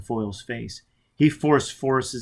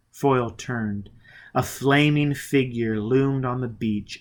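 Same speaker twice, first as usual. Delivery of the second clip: slower, weighty narration; slow dramatic reread. Shown as a demonstration. Narrator rereading the eerie scene slowly and gravely. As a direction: draw out the suspense. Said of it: "Let's read that again".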